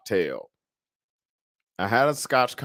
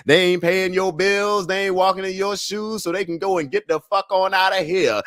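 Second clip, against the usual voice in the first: higher, rising defiant toast speech; fired-up toast; 6 semitones higher than usual. Acted. Toasting viewers, higher fired-up rallying speech. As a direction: preach it to the crowd like a rallying toast.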